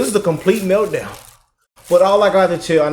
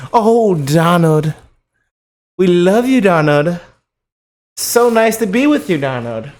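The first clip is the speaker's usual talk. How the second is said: a hint of a gushing, adoring woman; mock fawning hosts; slower than usual. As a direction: lightly coo the name like a smitten fan. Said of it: "They used to say".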